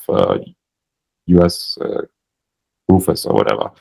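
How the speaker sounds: low, hesitant pitch with no belief in it; halting, unconvinced sales line; without conviction. Shown as a demonstration. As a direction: say it like you're making it up as you go. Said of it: "I didn't say that with great conviction".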